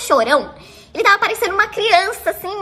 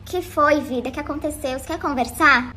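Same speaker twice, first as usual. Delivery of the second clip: softer, tender questions to a sad man; caring comfort; 3 semitones lower, 4 dB quieter than usual. Retold or imitated. Narrator comforting the crying guy, softly caring. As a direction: soothe him like a worried girlfriend. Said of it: "toda acolhedora".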